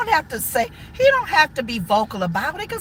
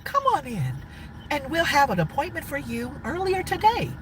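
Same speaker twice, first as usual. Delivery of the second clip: white voice. Retold or imitated. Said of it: "you put your white voice on".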